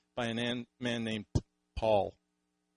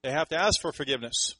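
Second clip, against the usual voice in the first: smug objector; 3 semitones higher, 5 dB louder than usual. Retold or imitated. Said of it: "And they say".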